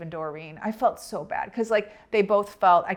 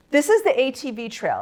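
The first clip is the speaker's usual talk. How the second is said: higher-pitched retold disbelief; mock-incredulous repeat, pitched up; incredulous echo; 6 semitones higher, 4 dB louder than usual. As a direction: echo it back as if appalled. She echoes the answer in disbelief.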